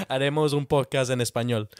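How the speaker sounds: laughing through the repeat. Real, not acted. Host repeats the Spanish podcast offer, laughing. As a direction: say it again while laughing.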